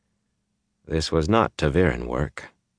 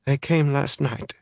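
slow, high mumble; dazed woman mumbling; mumbling, swollen face; 10 semitones higher than usual. A narrator's reading. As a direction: talk through a swollen mouth. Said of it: "mumbling because of her swollen face".

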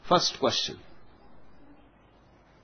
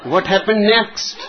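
put-on eager young captain; 3 semitones higher, 3 dB louder than usual. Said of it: "to a young captain".

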